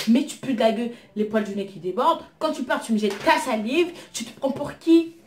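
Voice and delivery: retold yelling. Telling off the pushy date, reenacted half-shouted tirade. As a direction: replay the blow-up at the guy. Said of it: "j'ai crié ce jour-là".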